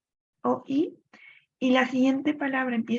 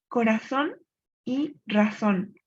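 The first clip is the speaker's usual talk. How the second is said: "corazón" rising, then "y razón" slow with the ending "-zón" stressed; rhyme shown; slower than usual. Shown as a demonstration. Teacher showing a full rhyme to the class. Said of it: "Aquí coinciden".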